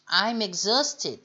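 I'm exhausted slowly, haust syllable stressed; slow teacher model of I'm exhausted; steady, stressed haust; slow stressed model line. Shown as a demonstration. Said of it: "l'intonation sur la, la syllabe du milieu".

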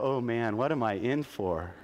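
low, laughing mock dread; amused laughing aside. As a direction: chuckle through a mock worried aside. Pastor retells own reaction laughing.

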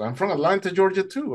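high, delighted surprise; retold amazement. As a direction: exclaim at an unlikely coincidence. Rescuer discovers shared hometown.

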